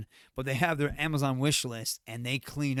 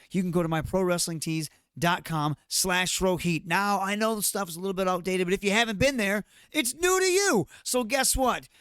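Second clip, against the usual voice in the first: pitched-up hard-sell promo; wrestling promo; 4 semitones higher than usual. Pretend. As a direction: hype the shirts like a heel. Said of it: "I'll cut a promo for my t-shirts".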